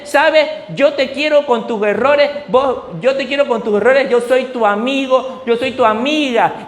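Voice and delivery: lightly voiced sweet cartoon cat; a hint of a sugary children's cartoon; mock-sweet cartoon singalong, barely shifted from his voice. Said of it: "y le dice".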